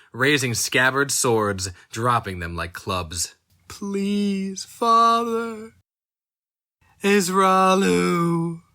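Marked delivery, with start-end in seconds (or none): 3.7-8.6 high, strained plea to a father; pleading son. A narrator's reading. Burning son crying out to his father, high desperate plea. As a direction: beg as if your voice is breaking upward.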